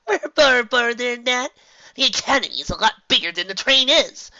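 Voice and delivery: loud, high cheerful reassurance; upbeat filly. Acted. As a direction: cheer up your friends.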